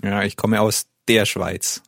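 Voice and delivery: usual speaking voice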